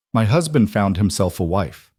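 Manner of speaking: mild correcting stress on "husband". A narrator's reading. Wife correcting her visitor, "husband" lightly emphasized. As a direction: lean a little on "husband" to correct him. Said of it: "Eleanor corrected, emphasizing the word husband".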